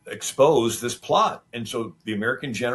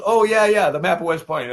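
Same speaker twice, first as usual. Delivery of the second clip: higher, louder flustered stammer, as if the spy were caught red-handed; a spy's sudden nervous yelp, much higher and louder; 8 semitones higher, 6 dB louder than usual. Retold or imitated. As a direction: play the caught spy scrambling for an answer.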